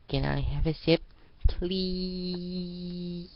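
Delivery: high, pleading little voice; puppy dog eyes asking Arya for a sip; begging. Acted. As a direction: beg sweetly like a child. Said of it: "Her puppy dog eyes".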